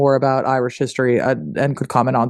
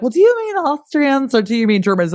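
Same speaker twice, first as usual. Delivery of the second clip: higher, prissy pedantic question; pedantic modern asker; 9 semitones higher than usual. Retold or imitated. Host mimicking a pedantic modern person, higher mock voice. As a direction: ask it like a fussy historian. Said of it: "now we'd be like".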